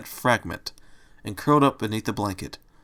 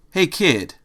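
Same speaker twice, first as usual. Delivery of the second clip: put-on higher-pitched tough Italian-accented call; 6 semitones higher than usual. A narrator's reading. Angel the bunny hails the stranger in an Italian accent. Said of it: "what sounded like an Italian accent".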